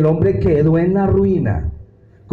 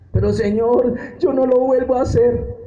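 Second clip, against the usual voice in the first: pleading believer; 8 semitones higher than usual. Acted. Believer voiced pleading with God.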